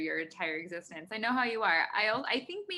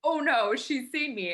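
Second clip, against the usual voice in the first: higher, louder little mouse panicking; startled mouse; 5 semitones higher, 7 dB louder, slower than usual. Retold or imitated. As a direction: voice the caught mouse in a squeaky fright. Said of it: "the mouse is staring right at me like".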